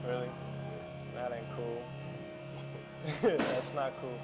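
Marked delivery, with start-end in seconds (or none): 1.9-3.3 soft, breathy chuckle; quiet real laugh under the breath. Real, not acted. Interviewer reacting to the commercial story, quiet laugh.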